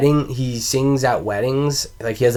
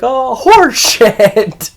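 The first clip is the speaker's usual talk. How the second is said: loud, high, drawn-out cursing; slow exasperated mock shout; mock angry outburst; 12 semitones higher, 8 dB louder, much slower than usual. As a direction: yell it in hammed-up outrage. Movie customer's reaction to refusal.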